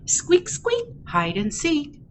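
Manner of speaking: sing-song rhymes with high, punchy quacks; happy duckling, picture-book reading. Acted. Ducky off to play in the rain, happy read-aloud. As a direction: read playfully to toddlers, bouncing the quacks.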